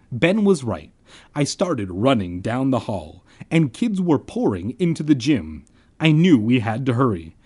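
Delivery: animated audiobook-style reading; story narration. A narrator's reading. Narrator setting up the school dance, storytelling. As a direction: narrate the scene to listeners.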